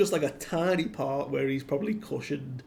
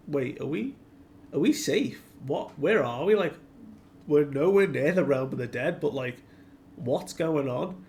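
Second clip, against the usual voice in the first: bewildered questioning; 3 semitones higher, 5 dB louder than usual. Retold or imitated. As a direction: imitate a group puzzled at being suddenly safe. Kids bewildered at being saved mid-fall.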